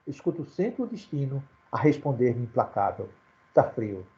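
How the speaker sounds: measured, recited poem reading; poem recital. Acted. Teacher reciting the poem about a childhood game, measured verse. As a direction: let the closing "Tá frio" drop low.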